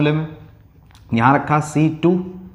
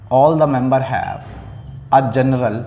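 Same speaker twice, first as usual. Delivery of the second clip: slow dictation; much slower than usual. Shown as a demonstration. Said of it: "teacher dictating definition, repeated slowly".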